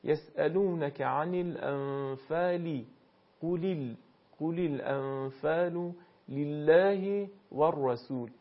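slow recited demo, each short i said as a clear ee sound; careful, slow teacher's model of short i vowels; clear Arabic kasra. Shown as a demonstration. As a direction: recite slowly with a pure i at the end of لله.

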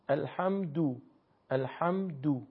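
الحمدو with a short final u; short Arabic u at the end of الحمدو; short damma. Shown as a demonstration. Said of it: "ضمه رو شما به صورت کوتاه".

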